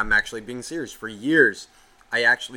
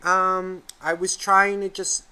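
put-on high, hesitant little-kid voice; imitated sorry kid; 6 semitones higher than usual. Kid apologises after being yelled at, high imitated child voice. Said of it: "hear a voice come on going".

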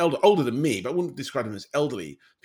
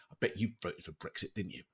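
imagined retort; 4 semitones lower, 10 dB quieter than usual. Pretend. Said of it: "felt like turning around and saying".

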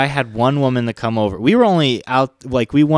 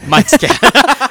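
squeaky high-pitched mock voice; high silly voice; 13 semitones higher, 6 dB louder than usual. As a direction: say it in a high goofy voice. Repeating in third person.

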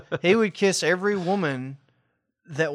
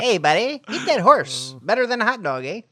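hammed-up Russian buddy pushing horse meat; Russian accent; 3 semitones higher than usual. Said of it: "I think that sounds Russian".

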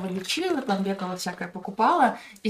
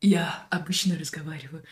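whispering; 3 semitones lower than usual. Shown as a demonstration. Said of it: "работала над милым голосом".

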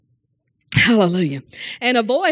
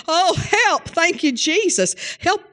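retold cry for help; 6 semitones higher, much slower than usual. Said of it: "I was like".

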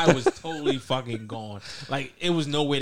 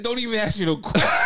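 mildly heated, higher-pitched imitation; mock aggressive; 4 semitones higher, 4 dB louder than usual. Teasing a friend about his game-night temper, mock aggressive. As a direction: snap it like an irritated gamer, half joking. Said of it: "this nigga's mad aggressive".

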